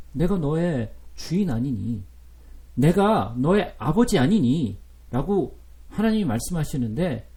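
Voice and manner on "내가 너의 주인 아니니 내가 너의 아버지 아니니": slow, tender fatherly asking; gentle father's question. Acted. Father gently asks his son, slow and tender. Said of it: "아버지가 얘기해요".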